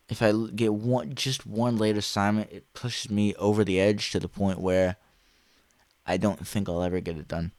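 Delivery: talking around a dental retainer; slightly slurred with a retainer in; retainer in mouth. Real, not acted. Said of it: "my retainer's in right now".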